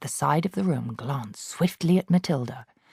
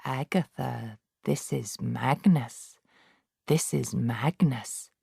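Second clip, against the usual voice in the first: low, soft, slow spectral message; ghostly voice; 3 semitones lower, 5 dB quieter, slower than usual. Acted. Ghost of Magnus revealing himself, low and slow. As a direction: intone it slowly from beyond.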